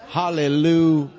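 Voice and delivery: loud, high cry of HALLELUJAH; full-force shout of praise; hallelujah meant wholeheartedly. Shown as a demonstration. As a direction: belt out Hallelujah like you mean it. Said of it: "Say it like you mean it".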